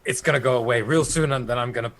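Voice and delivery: woozy mumble, acted; hoarse mumbling. Wounded Weimar mumbling to himself, lightly acted hoarse voice. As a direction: start up, then sag as adrenaline fades. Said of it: "with a very hoarse voice".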